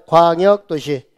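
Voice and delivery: "광역도시" said slowly with a drawn-out first syllable; slow teacher's model of "광역도시", falling at the end; repeat-after-me. Shown as a demonstration. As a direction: stretch "광역도시" for students to copy. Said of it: "따라서 해봐요".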